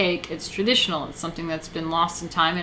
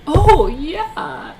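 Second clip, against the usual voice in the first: higher, louder gushing Oh, yeah; mock gullible fan; 10 semitones higher, 8 dB louder than usual. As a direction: ham up a fawning follower. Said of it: "they're just like".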